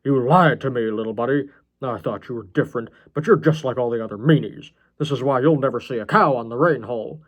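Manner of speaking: put-on voice of a hurt, unhinged oddball; aggrieved story villain with punched words; wounded John, childish grievance. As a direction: whine an accusation at your little buddy.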